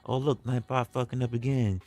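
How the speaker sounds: lightly acted, distracted hellos; casual chat greetings. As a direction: greet the chat regulars one by one. Acts out greeting people in chat.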